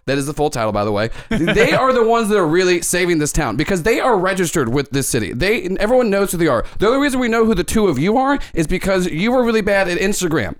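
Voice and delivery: lightly voiced sneering news anchor; a hint of an anchor editorializing; Ken De Niro reporter voice. Host attacking the Fun Bunch on air, mild sneer. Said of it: "And he goes".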